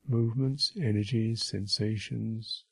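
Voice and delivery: unhurried meditation guidance with long silences; name each sensation, then leave space; guided meditation. Real, not acted. Teacher guiding listeners through bodily sensations, unhurried guided meditation.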